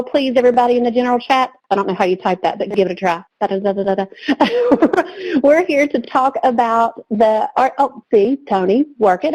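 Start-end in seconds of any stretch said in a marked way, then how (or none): 3.4-5.4 a quick playful drum roll on da; mock drum roll. Host filling in a drum roll for the webinar chat, playfully. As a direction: hum da da da like a drumbeat. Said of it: "can I get a drum roll".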